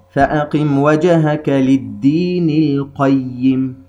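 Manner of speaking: slow melodic tajweed recitation; Quran recitation. Shown as a demonstration. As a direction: chant the verse slowly with tajweed.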